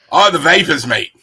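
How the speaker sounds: rough, playful attempt at an Australian accent. Shown as a demonstration. Kobold host trying an accent on the guest's request, jokey Australian. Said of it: "Can you do an Australian accent?".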